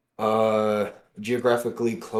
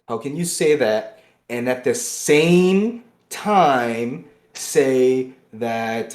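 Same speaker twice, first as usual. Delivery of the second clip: pressing the question in real anger; angry outburst; 2 semitones higher, 6 dB louder, much slower than usual. Real, not acted. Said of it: "how mad I am right now".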